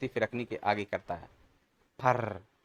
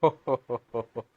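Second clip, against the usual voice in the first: hearty laugh; 3 dB louder than usual. Acted.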